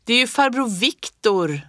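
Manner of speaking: put-on child shouting on recognizing Viktor; excited yell. A narrator's reading. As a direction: blurt it out in delight. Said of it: "skrek jag".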